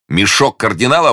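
high, delighted outburst; amused exclamation. A narrator's reading. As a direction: cry it out with incredulous glee. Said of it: "воскликнул Д'Артаньян, громко смеясь".

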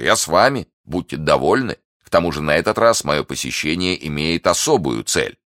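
lightly voiced ironic brother-in-law; mocking Lord Winter. Brother-in-law visiting his captive, lightly mocking. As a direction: taunt with a touch of mock courtesy.

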